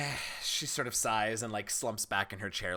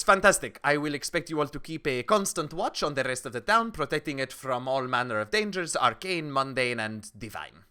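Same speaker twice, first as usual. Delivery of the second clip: brisk, raised voice issuing orders; commanding townswoman; 4 semitones higher, 6 dB louder than usual. Acted. Townswoman orders party to watch the town, commandingly. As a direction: hand down the duty with authority. Game master plays townswoman.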